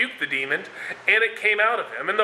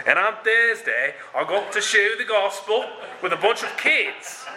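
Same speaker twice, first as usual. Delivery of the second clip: laughing; 3 semitones higher than usual. Real, not acted. Laughing while telling VBS story.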